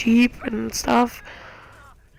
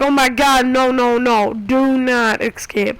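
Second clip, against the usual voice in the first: panicked pleading; 2 semitones higher, 4 dB louder than usual. Retold or imitated. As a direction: beg the helicopter not to get away. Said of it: "And I was like".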